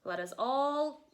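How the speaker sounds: loud cawing raven voice; calling raven. Acted. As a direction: call everyone to gather like a crow. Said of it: "Raven says".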